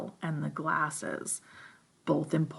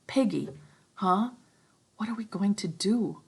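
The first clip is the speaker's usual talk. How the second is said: a touch higher, lightly voiced boy at a loss; Ralph, shaken; 5 semitones higher than usual. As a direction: ask it helplessly.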